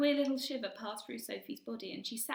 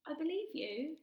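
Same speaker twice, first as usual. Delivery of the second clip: softly; 7 semitones higher than usual. A narrator's reading. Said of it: "she said softly".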